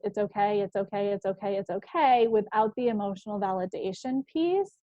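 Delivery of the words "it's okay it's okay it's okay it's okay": mechanical repeated "okay", brushing it off; just keep saying "okay" on autopilot; rote reassurance. Retold or imitated. Parent dismissing a child's feelings, rote and hurried. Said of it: "always telling our kids".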